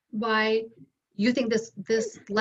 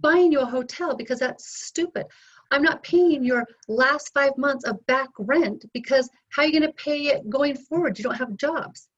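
raised, insistent voice, half acting it out; retelling how she laid down the law, louder; mock stern refusal, a touch louder; retold firm scolding; 4 semitones higher, 4 dB louder than usual. Retold scolding of daughter over money.

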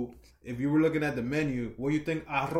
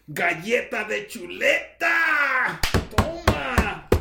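higher, louder, slow Spanish punchline; mock Spanish smack shout; 8 semitones higher, 5 dB louder, much slower than usual. Host delivers his smack en español, loud mock yell. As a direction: shout it like landing a slap.

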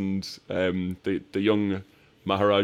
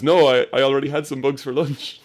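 sarcastic Willie; 6 semitones higher, 7 dB louder than usual. Retold or imitated. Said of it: "And she goes".

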